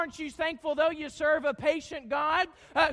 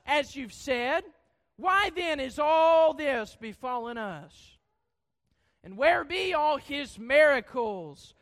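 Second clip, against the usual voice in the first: scripture reading. Acted. Reads Gideon's complaint.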